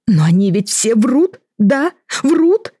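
begging him to say they lie; hopeful, climbing to a high Врут. A narrator's reading. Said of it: "с надеждой спросила Марина".

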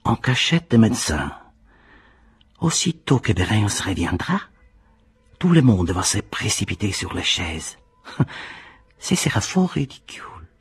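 amused refusal. A narrator's reading. Clawdia refuses to dance.

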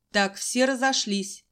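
put-on teacher ordering students away from the fainted girl; command. A narrator's reading. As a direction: order the crowd to step back. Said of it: "приказал подошедший".

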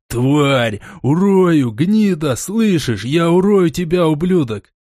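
high-pitched furious shouting; enraged threats. Acted. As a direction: hurl each insult like a struggling, pinned man. Restrained Dimon hurls threats.

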